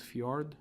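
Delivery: "fjord" with the J said as an English Y; "fjord" starting f-y, Scandinavian style. Shown as a demonstration. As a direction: say "fjord" as fyord, one syllable. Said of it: "J's mean a Y".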